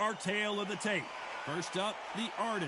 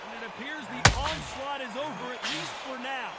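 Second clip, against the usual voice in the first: excited; 3 semitones higher than usual. Real, not acted. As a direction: shout it as the punch lands. Commentator reacts to knockdown blow.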